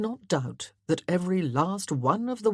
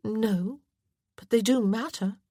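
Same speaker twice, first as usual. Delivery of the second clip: insistent wife; 6 semitones higher than usual. A narrator's reading. Wife contradicts husband.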